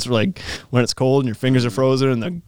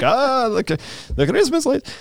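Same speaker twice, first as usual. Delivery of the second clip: mock awe; 8 semitones higher, slower than usual. Mock worship of the lights.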